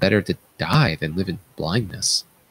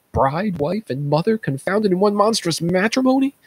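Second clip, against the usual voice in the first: rising anguished outburst; 5 semitones higher than usual. Acted. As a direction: build to a high horrified cry. King names his incest.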